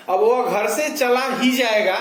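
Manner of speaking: ही given a firm push before जाएगा; stress on ही. Shown as a demonstration. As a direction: lean on ही to sound certain. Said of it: "ही पर बालाघात है". (ही पर ज़ोर)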